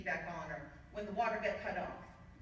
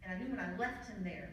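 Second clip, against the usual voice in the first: tender father; 5 dB quieter than usual. Retold or imitated. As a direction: quietly reassure your children. Father's tender explanation to kids.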